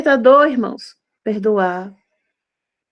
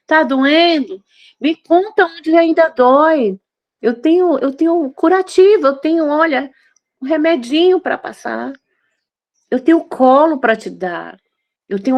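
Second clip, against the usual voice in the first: tender comforting; 2 semitones higher than usual. Acted. God comforting a hurting daughter.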